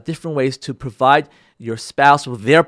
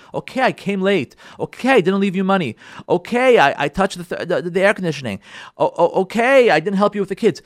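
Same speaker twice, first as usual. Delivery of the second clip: defensive spouse; 3 semitones higher than usual. Acted. Acted defensive spouse admitting small faults.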